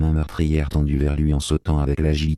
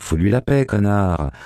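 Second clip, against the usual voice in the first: angry shout; 4 semitones higher than usual. Retold or imitated. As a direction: snap it at him angrily. Narrator insults drunk man at dance.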